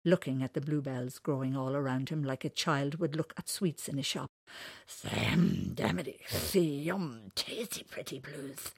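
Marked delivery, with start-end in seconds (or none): 5.0-8.7 delighted creature. Acted. Whiscockily delighted with flowers.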